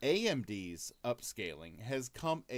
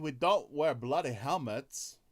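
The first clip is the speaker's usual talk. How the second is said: put-on light English accent; a hint of a Manc accent; English accent impression; 5 dB louder than usual. American host imitating a Brit, mild Manchester accent. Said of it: "I'm gonna do my English impersonation".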